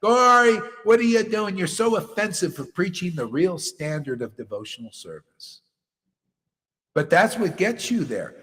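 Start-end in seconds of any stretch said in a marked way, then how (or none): 0.0-5.6 high, loud mocking accuser; imitating a critic's scolding. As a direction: mimic the critics' outrage, hammed-up. Critics scolding him, retold.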